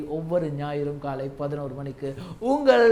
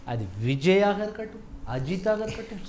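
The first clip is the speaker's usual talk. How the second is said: ordinary talk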